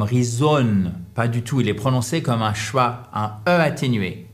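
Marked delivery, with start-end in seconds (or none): 0.0-0.9 "reason" with a full French O, "ree-ZON"; mauvaise prononciation. Shown as a demonstration. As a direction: say "reason" wrongly with a clear "on" ending. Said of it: "il n'est pas prononcé comme". (« reason » avec un O plein à la française)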